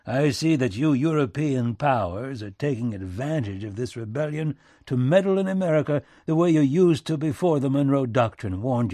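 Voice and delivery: loud back-country tirade; folksy statesman working up steam; indignant President Lincoln, accusing. Acted. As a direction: accuse the European powers heatedly.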